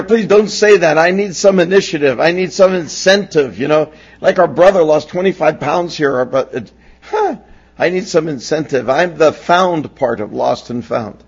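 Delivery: hammed-up protest, laughing underneath; mock plea. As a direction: beg the doctor not to say it. Pleading with doctor, retold.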